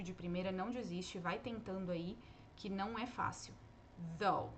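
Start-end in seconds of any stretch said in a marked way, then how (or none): 4.2-4.5 "Though" said as plain "oh", no th sound; th ignored. Shown as a demonstration. Teacher tells students to ignore the th, says "Though" as "oh". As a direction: drop the th: just "oh" for "Though". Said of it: "Ignora o T H".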